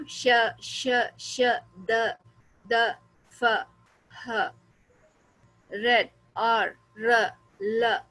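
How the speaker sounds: श, द, फ, ह, र and ल said one by one, each sound held apart; isolated sounds drill. Shown as a demonstration. Teacher drilling isolated sounds for students to repeat. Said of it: "बार बार बोलना है इसको".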